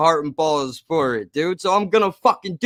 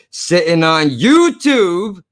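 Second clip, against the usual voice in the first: slow mock yell, a touch louder; caps-lock yell; 4 dB louder, slower than usual. Shown as a demonstration. Reading the hater's caps-lock comment aloud, mock yell. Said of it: "Gotta yell that part 'cause it's in caps lock".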